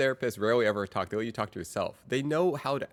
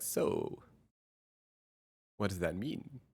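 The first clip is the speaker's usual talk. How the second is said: hushed, gentle therapist voice; soft probing counselor question; therapist impression; 3 semitones lower, 6 dB quieter, slower than usual. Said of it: "that's my impression of a therapist".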